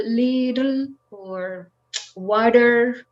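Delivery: little and water with the t tapped like a quick d; flap t. Shown as a demonstration. Teacher modelling the tapped t in little and water. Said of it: "it's like d".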